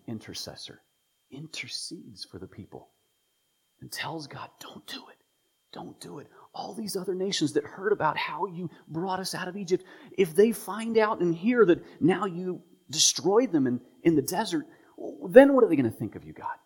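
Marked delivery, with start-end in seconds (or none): 4.6-16.6 Moses pleading. Retold or imitated.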